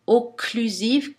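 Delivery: "Occlusive" slow, first sound "Oc" stressed; stressed first consonant. Shown as a demonstration. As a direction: draw out the K in "Occlusive". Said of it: "la première consonne de chacun de ces mots". (appuyer sur la première consonne)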